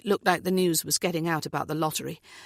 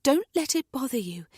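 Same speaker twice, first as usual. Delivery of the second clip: firm; 8 semitones higher than usual. Acted. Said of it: "Natalie says firmly".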